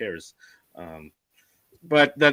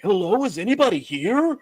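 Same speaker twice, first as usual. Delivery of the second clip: raised, higher-pitched mock call into an empty house; 8 semitones higher, 4 dB louder than usual. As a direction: imitate a ghost hunter calling for spirits. Voices investigator calling out to spirits.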